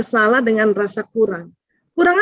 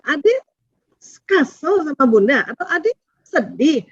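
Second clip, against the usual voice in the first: gentle validation; 3 semitones higher than usual. Shown as a demonstration. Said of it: "dirubah menjadi". (pelan dan lembut)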